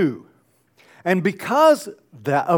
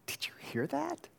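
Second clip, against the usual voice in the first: hushed whisper; leaning in, whispering to a friend; surprised whisper; 11 semitones higher, 16 dB quieter than usual. Retold or imitated. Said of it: "and you said".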